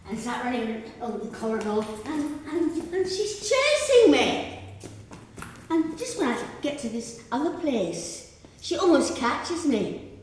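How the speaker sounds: high, loud, building to a panicked yell; frantic chase telling. Acted. Performer fleeing down the corridor with her monkeys, frantic and loud. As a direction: tell it as if still being chased.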